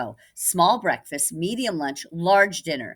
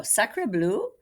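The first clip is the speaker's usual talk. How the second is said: mock French; 5 semitones higher than usual. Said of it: "she cried".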